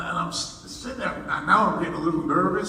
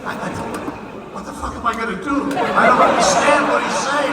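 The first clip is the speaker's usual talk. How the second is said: mock French accent; 6 semitones higher, 4 dB louder than usual. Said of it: "Pardon my French accent".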